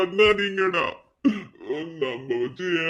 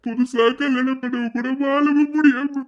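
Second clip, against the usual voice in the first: put-on a drunk man weeping over lost love, crying; crying lament; 4 semitones higher than usual. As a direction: voice breaking into tears, pitched up. Drunk man crying about life.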